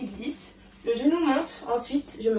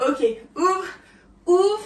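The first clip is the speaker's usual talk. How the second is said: ouvre called higher and louder; 6 semitones higher, 5 dB louder, slower than usual. Acted. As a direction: shout the cue. Calling moves mid-choreography. (ouvre crié)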